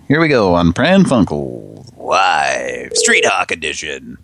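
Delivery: slow showman announcement; show intro. Acted. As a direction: introduce the show like a host, slowly. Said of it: "announcing the show".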